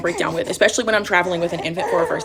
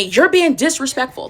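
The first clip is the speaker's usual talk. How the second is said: higher, drawn-out imitated yell; mock scream; 6 semitones higher, 4 dB louder, slower than usual. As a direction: imitate her yelling, slowly and raised. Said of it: "She starts screaming at me".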